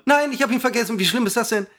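high-pitched frustrated wail; dismayed outburst. Real, not acted. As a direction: blurt it out high, exasperated with yourself. Forgets his third topic, dismayed.

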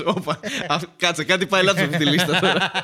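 loud, laughing mock alarm; loud imagined reaction broken by laughter; mock suspicion. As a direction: play someone smelling a rat, laughing. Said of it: "Και λες".

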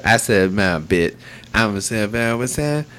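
mumbling a rapper, words slurred and half-dropped; imitating a rapper who barely finishes his words; mumbled half words. Mocking the rapper's mumble for the podcast hosts, slurred and mumbled. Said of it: "He uses half words".

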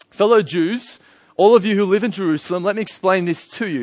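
lightly voiced public orator. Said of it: "raised his voice and addressed the crowd".

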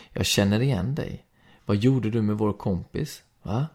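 loud, accusing shout held through the question; angry yelling. A narrator's reading. Angry boy accusing Mira of hurting his friend, shouting. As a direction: confront her like you want a fight. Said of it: "skrek en av dem".

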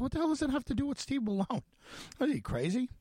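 exasperated disbelief. Retold or imitated. Reporter retelling his outburst at a friend, exasperated disbelief. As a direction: throw the question back, stunned.

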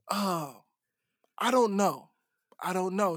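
soft, low, halting reply; hesitant, subdued. Retold or imitated. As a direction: imitate someone unsure, trailing off quietly. Retold woman hesitating while processing.

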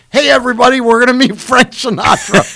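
rally the team like a proud captain; excited announcement. Retold or imitated. Martin announcing standing on table.

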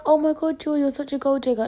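high, whiny mock accusation; light parody of a critic; mocking accuser. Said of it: "don't be like".

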